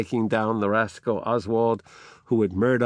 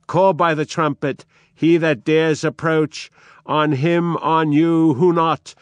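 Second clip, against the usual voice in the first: loud, higher furious defiance; fury; 5 semitones higher, 5 dB louder than usual. A narrator's reading. Edmund hurls defiance at his accuser in fury. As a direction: roar the challenge back at him. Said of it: "in fury".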